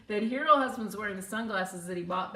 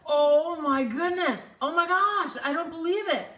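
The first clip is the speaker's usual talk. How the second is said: acted-out double-take exclamation; astonished recognition; 7 semitones higher, 8 dB louder than usual. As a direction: gush like you've spotted someone unbelievable. Stranger's astonished recognition, retold.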